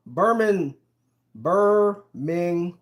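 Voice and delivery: "Birming-" split into syllables, cut before the ending; careful syllable practice. Shown as a demonstration. Struggling with a viewer's correction, "Birming-" sounded out carefully. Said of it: "Don't emphasize the hum".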